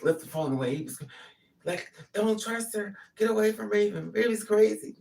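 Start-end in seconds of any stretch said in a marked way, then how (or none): 2.1-5.0 high, loud mock warning; retold screaming. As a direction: imitate him yelling urgently down the phone. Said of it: "he was screaming on the phone".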